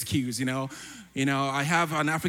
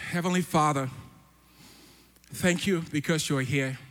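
prayer. Real, not acted. Opens the prayer.

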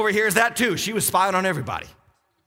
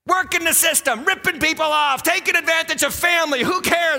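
raised-pitch, driving mock defiance; defiant schemer; 5 semitones higher than usual. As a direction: preach it as a schemer's brazen boast. Preacher voices a schemer's defiance.

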